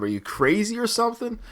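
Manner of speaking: high-pitched imitated movie question; mock incredulous trainer, pitch up; Rocky. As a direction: imitate a boxer's scolding question. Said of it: "Like, Rocky asks him".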